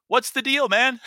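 high-pitched mock disbelief; playful retold what's-the-deal; incredulous quote. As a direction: toss it off as a teasing, baffled question. Friend questioned in retold scene.

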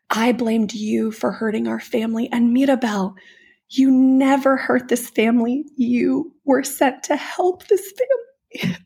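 choked-up retelling of a grandmother's apology; tearful Abuela. Retold or imitated. Woman retelling a film scene, voice catching with tears. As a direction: voice breaking on the last line.

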